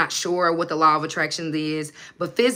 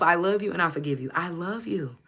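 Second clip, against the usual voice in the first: self love; 4 dB quieter than usual. Retold or imitated. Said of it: "I tell myself".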